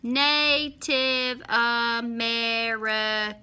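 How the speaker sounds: "Native American" very slow, in six even drawn-out beats; syllable by syllable. Shown as a demonstration. Teacher counting syllables with pupils, syllable by syllable. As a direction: chant "Native American" as na, tive, a, me, ri, can. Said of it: "Let's do that one again".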